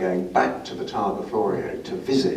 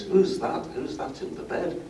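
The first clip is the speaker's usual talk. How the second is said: imitated northern English voice, pitched up; higher-pitched northern accent, retold; northern British accent; 8 semitones higher than usual. Injured driver calls from his hospital bed in a higher northern British accent. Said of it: "a British northern accent".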